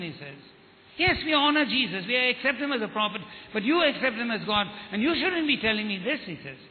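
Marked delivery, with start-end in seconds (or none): 1.0-6.2 worked up. Retold or imitated. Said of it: "he really got worked up".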